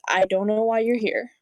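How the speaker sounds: normal talking voice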